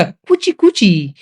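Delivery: slow, drawn-out pleading beggar's call; teacher imitating a beggar's slow plea to explain the lesson; begging cry. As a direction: wheedle like a street beggar asking for a coin. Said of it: "क्या कहकर भीख मांगते थे".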